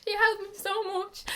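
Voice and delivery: real tears welling, voice high and strained; fighting back tears while missing her; tearing up. Real, not acted. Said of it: "I'm actually tearing up now".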